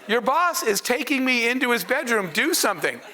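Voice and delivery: high-pitched quote broken by real laughter; can't keep a straight face telling it to the audience, laughing; laughing through quote. Real, not acted. Speaker to audience, retelling mom's protest, laughing.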